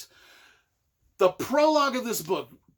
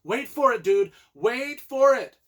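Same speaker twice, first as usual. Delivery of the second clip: louder and higher, stretching the last wait for it slowly; teasing wait for it; 5 semitones higher, 6 dB louder than usual. Retold or imitated. Author teasing a fan about the next book, getting louder and more drawn-out. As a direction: build the suspense like a friend hinting at the sequel. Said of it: "And he's like".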